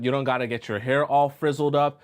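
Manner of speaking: usual speaking voice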